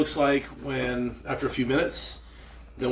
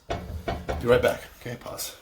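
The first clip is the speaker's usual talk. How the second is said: whispering; 3 dB quieter, slower than usual. Real, not acted. Signing off before pausing.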